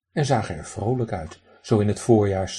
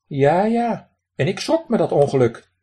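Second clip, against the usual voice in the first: high, loud duck voice with a raspy quack; 7 semitones higher, 6 dB louder than usual. Acted. Drake lectures the man who threw pebbles, high raspy quack. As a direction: play a cheeky drake scolding a stranger. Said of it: "kwaakte de eend".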